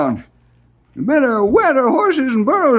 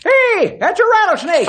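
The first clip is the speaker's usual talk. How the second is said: startled alarm; 3 semitones higher than usual. Acted. Spots rattlesnake near the horses.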